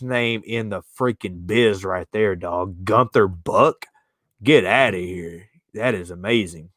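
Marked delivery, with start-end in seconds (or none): 2.8-3.9 savoring. Real, not acted. Repeating the name, savoring it.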